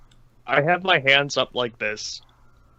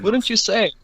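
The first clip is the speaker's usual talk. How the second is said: higher, put-on questioning lilt; character voice; 8 semitones higher than usual. Playing the character to the captain, put-on questioning voice. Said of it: "just playing the character then".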